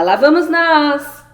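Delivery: high, slow, loud sing-song; playful prompt. Real, not acted. Parent prompting toddler, high slow sing-song.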